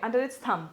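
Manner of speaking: THUMB said as "thum" within the phrase; silent b. Shown as a demonstration. Teacher modelling the phrase for students, silent b in thumb. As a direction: end THUMB on the m, dropping the b. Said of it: "बी silent है यहाँ पे".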